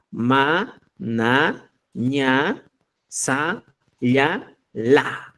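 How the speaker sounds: slow, separate syllables ma, na, ña, sa, ya, la; syllable drill. Shown as a demonstration. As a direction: sound out each syllable "ma" apart. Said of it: "En el quechua decimos".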